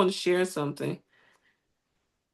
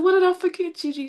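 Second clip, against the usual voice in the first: puzzled question; 12 semitones higher, faster than usual. Retold or imitated.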